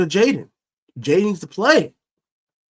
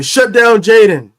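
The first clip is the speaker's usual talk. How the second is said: slow, raised mock chant of the fans; 6 semitones higher, 7 dB louder, slower than usual. Host mimicking fans demanding Jaden be benched, mocking. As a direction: parrot the critics with scorn. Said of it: "So everybody say".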